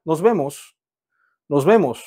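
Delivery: Nos vemos at normal pace, falling; model for repeating. Shown as a demonstration. Teacher giving Nos vemos for students to repeat. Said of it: "따라해볼까요".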